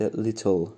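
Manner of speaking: لیتل with a very short i sound after the t; little with a tiny i. Shown as a demonstration. Teacher showing student to say لیتل lightly. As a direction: say لیتل as lit-l, barely an i. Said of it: "یه ای خیلی کوچیکی بعد از ت شنیده بشه".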